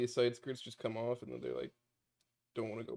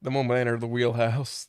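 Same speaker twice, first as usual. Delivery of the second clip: put-on British accent; 7 dB louder than usual. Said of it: "can't fucking go back into British".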